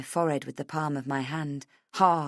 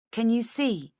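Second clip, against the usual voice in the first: higher-pitched urgent question; insistent; 6 semitones higher than usual. A narrator's reading. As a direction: press him to look. Urging him to look at photo.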